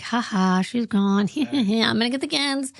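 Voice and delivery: hammed-up gloating with a put-on chuckle; mock gleeful. Co-host imitating the excited husband, mock gleeful. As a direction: imitate someone secretly delighted, laughing through it. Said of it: "How can he not be excited?".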